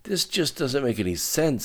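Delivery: high, tense, incredulous anger; strained, high-pitched indignation; through gritted teeth. A narrator's reading. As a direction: vent outraged disbelief through clenched teeth. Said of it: "gritting his teeth".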